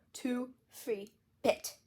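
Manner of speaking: counting through a mouthful of toothpaste; mouth full. Acted. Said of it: "my mouth was so full it sounded like".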